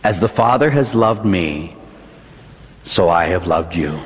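low, slow, solemn quoting; scripture quote. Acted. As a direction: let each phrase settle slowly and low. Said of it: "Jesus in John chapter fifteen".

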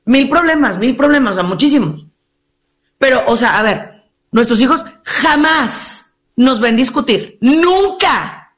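prim mother. Retold or imitated. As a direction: act the smug seated wife. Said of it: "La señora así está sentadita así".

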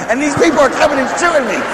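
normal talking voice

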